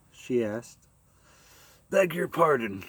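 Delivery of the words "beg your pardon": uncertain. Acted. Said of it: "said Captain Black uncertainly".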